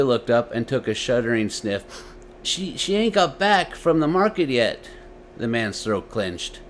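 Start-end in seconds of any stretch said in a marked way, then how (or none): 2.4-4.9 put-on higher boy's voice, halting after crying; stammering boy. A narrator's reading. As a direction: stutter like a scared little boy.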